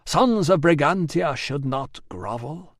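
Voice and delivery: a solemn goddess calling out; commanding goddess voice. Acted. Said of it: "the woman said".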